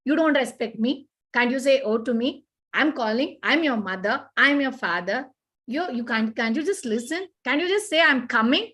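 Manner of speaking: mock scolding parent. Parent scolding an unresponsive child, mildly mock indignant. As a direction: play the hurt parent demanding respect. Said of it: "don't shout back and say".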